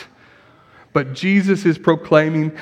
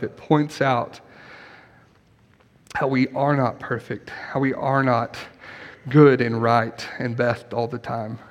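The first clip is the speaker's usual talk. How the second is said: closing prayer. Acted. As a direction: pray gently over the congregation. Closing prayer after sermon.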